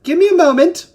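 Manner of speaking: loud, high shout; calling out. Acted. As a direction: holler it to someone outside. Giant calls out to visitors.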